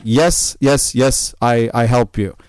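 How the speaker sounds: lightly imitated European accent. Stranger insisting he will help, European accent. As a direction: attempt at a helper's Russian-like accent. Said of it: "a heavy European-ish accent".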